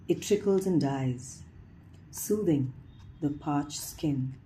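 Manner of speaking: measured poem reading with pauses between phrases; poetry recitation. Acted. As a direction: lift each phrase opening, then let it fall. Reads a poem aloud.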